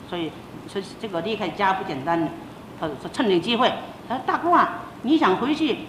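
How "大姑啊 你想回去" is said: put-on raised, coaxing plea to an older woman; lightly voiced eager colleague asking a favour; eager pleading. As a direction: talk her into it sweetly. Colleague pleads to travel together.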